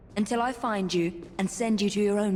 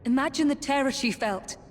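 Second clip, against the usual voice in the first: a cold, taunting whisper. Acted. Woman taunting the absent killer, whispered. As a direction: hiss the question at him.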